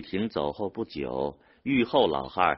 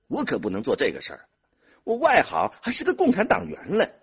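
fast start, rising high and loud; heated, self-righteous protest; indignant refusal; 9 semitones higher, 6 dB louder, faster than usual. A narrator's reading. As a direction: refuse hotly, voice climbing on principle. Brother indignantly refuses on principle.

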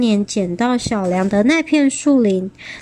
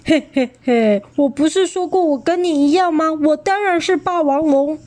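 gloating T-rex; 6 semitones higher than usual. A narrator's reading.

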